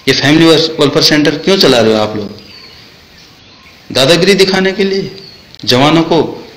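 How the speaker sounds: high-pitched accusing questions; indignant challenge. Real, not acted. Jawan challenging officers over harassing soldiers, indignant. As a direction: throw the questions at them, pitch jumping up.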